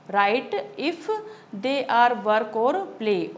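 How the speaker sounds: measured recitation, very slow; slow reading aloud. Acted. Teacher reading the poem to her class, slow and measured. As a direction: read each word slowly and clearly for the class. Reads workbook instruction aloud.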